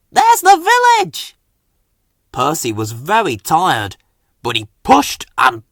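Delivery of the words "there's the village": high loud joyful cry; puffed excitedly. A narrator's reading. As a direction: cry out in relief at the sight. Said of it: "Thomas puffed".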